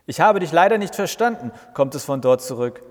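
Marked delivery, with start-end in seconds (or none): 0.1-1.5 mock voice assistant. The speaker mimics Alexa reply.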